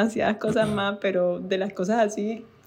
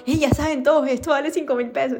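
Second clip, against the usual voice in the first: raised, lively heads-up; call to helpers; 5 semitones higher than usual. Retold or imitated. Telling the family helpers the new price, raised and lively. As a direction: shout the price to the team.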